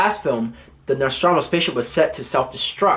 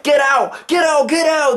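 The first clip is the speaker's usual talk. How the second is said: panicked shouting; 10 semitones higher than usual. Retold or imitated. Marines fleeing the swarm, high panicked yell. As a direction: shout them out of the room. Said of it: "everybody's just like".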